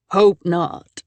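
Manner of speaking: put-on gravelly old man. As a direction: rasp it like a weathered old rancher. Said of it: "he said in a gravelly voice".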